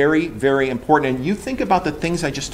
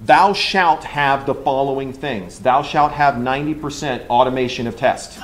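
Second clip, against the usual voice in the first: mock commandment. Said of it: "it says".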